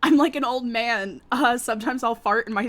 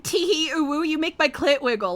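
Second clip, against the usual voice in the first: put-on high, giggly scene girl voice; breathy cutesy giggly; 6 semitones higher than usual. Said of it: "she's like".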